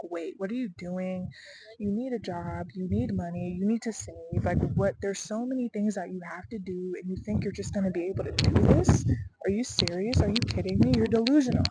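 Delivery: nagging doubts rising into loud incredulity; self-doubt talk. Acted. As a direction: scold yourself, building to loud disbelief. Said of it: "self-doubt talk all the time".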